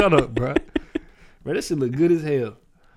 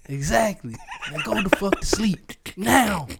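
laughing mock scold; 7 semitones higher, slower than usual. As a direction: giggle while telling baby off. Laughing, hushing the baby.

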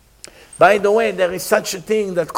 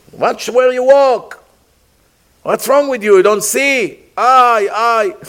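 higher, indignant scolding with mock yelps; retold angry screaming; 4 semitones higher, 4 dB louder than usual. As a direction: act out scolding a clumsy person. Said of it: "That person screamed".

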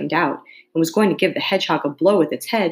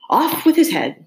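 shouting queen; 9 semitones higher, 3 dB louder than usual. A narrator's reading. Queen settling all difficulties.

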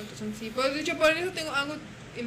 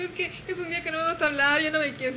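higher, mock-wounded protest; dramatic complaint; 5 semitones higher, 4 dB louder than usual. Retelling her reply after a spat, hammed-up dramatic complaint. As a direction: play up being hurt, half joking. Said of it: "no seas dramática".

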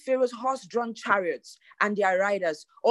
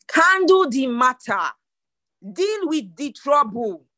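slow, weighty orders, word by word; deliberate command; 3 semitones higher, 3 dB louder than usual. Acted. Preacher urging action in God's words, slow deliberate command. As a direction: press each word home slowly and firmly.

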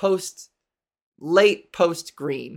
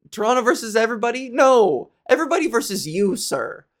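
mock rant; 4 semitones higher than usual. Ranting at an imagined fan, fast mock retort. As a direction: fire it back at him.

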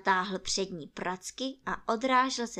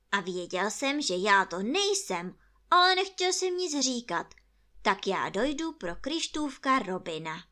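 louder, matter-of-fact rabbit voice; reproving rabbit; 3 semitones higher, 6 dB louder than usual. Acted. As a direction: state it firmly as the rabbit.

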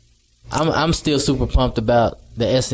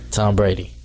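put-on Texas accent; 3 semitones lower than usual. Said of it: "how would somebody from Texas say it".

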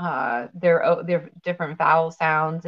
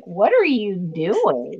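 slow, drawn-out exasperated question; mock disbelief; much slower than usual. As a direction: stretch it out in baffled reproach. Retold family reaction to bad accent.

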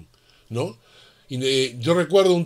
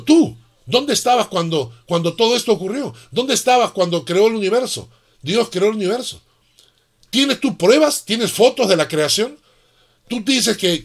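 indignant confrontation; 5 semitones higher than usual. Retold or imitated. Preacher confronting the atheist in the plaza, high and indignant. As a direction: fire questions at him in righteous anger. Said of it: "Me dio tanta cólera".

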